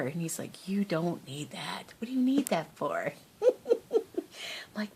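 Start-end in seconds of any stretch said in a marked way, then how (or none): 0.7-3.1 mock scolding. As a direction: imitate an exasperated son. Imitates son scolding her purchases.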